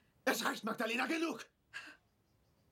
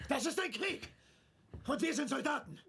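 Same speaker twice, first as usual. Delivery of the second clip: raised, hard commanding voice; stern lecture; 5 semitones higher than usual. Acted. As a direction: lay down the law to her. Husband lecturing wife angrily.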